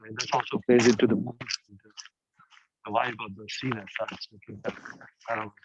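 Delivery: muffled speech. Real, not acted. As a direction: hand over mouth. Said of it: "you're kinda muffled".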